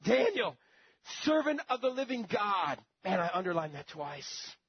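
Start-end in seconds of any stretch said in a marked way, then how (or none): 0.0-2.8 king calls anxiously into the lions' den; anguished call. Acted. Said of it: "in an anguished voice".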